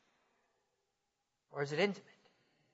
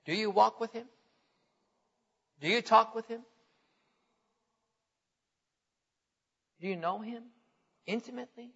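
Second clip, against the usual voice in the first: hymn words, softly; 5 dB quieter than usual. Retold or imitated. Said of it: "As the old hymn says".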